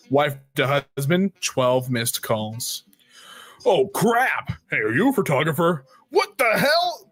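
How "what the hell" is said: startled outburst. Acted.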